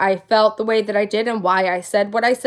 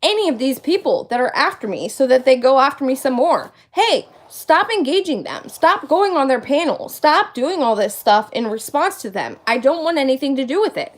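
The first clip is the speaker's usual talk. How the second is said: imitating Charlotte. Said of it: "That's Charlotte, by the way".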